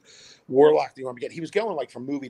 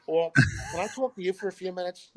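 nervous laugh; 9 semitones higher, 6 dB louder than usual. Retold or imitated. Nervous fan asks the mother.

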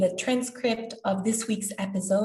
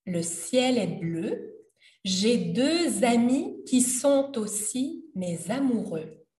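"le temps est bon" recited slowly, line by line; slow lyric reading; slower than usual. Shown as a demonstration. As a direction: read the chorus slowly and clearly for learners.

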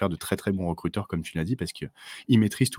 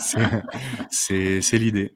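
laughing; 3 semitones higher, 4 dB louder, much slower than usual. Real, not acted. Laughing at the joke.

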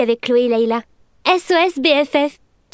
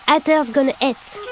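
put-on drawn-out English with a show-off accent; slower than usual. Girl quoting her sister's advice, showy English accent. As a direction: put on your best English accent, slowly. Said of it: "mon super accent".

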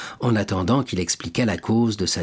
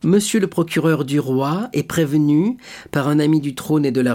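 higher, measured reading of a denunciation; reading a letter aloud; 3 semitones higher than usual. A narrator's reading. Villefort reading the denunciation to the table, formally. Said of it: "Et Villefort lut".

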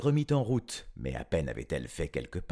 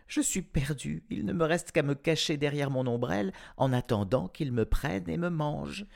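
put-on frightened girl; 6 semitones higher than usual. A narrator's reading.

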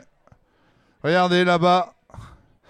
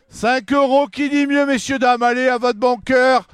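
auctioneer; 2 semitones higher than usual. Acted. Auction calling out bids.

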